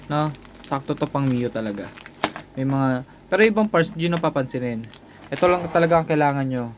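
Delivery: ordinary talk, nothing marked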